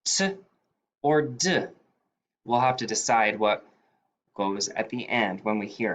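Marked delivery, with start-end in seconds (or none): 0.0-0.3 "t" as a crisp little puff, pitched up; suffix sound t. Shown as a demonstration. Teacher isolating the ED t sound for students, crisp. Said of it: "Our suffix E D has three sounds". 1.0-1.7 "d" voiced and short, slightly raised; suffix sound d. Shown as a demonstration. Teacher naming the last ED sound for students, voiced. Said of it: "Our suffix E D has three sounds".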